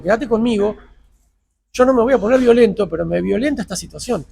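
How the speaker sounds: reenacted exasperated appeal; riled pleading. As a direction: hold back anger while insisting. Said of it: "me le voy al humo".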